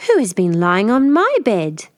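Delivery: a lighter growl of mother bear. Acted. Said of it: "Mother Bear growled".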